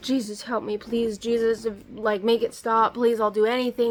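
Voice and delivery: hysterical crying voice. Speaker relives sitting there rocking back and forth, retelling desperate crying pleas. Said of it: "I'm sitting there".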